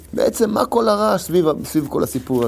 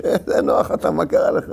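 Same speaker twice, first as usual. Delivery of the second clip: mock whisper. Sinners mock Noah, whispered.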